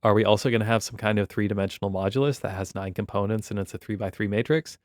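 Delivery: loud "Oh, wow" then an eager, fast question; mock amazed student. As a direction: play a student suddenly catching on. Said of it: "you might be like".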